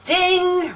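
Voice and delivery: high, ringing "ding"; imitated bell ding. Announcing the next round, high imitated bell.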